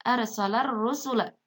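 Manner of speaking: "arsalar rusula" joined by a held R; silent lam. Shown as a demonstration. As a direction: read "arsalar rusula" with no L before the R. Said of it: "ini juga alif lamnya tidak dibaca".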